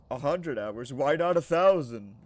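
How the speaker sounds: rising into a loud mock-outraged yell; incredulous shout. Streamer yells at chat in mock outrage, loud and incredulous.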